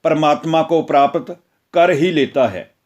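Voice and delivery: measured devotional reading of the Gita; scripture recitation. Acted. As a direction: read it like a solemn religious discourse, steady and reverent. Gita discourse read as scripture. (धार्मिक प्रवचन की तरह गंभीर पाठ)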